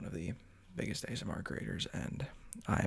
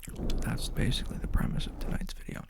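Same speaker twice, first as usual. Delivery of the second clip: ASMR whisper. Real, not acted. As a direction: whisper gently into the mic.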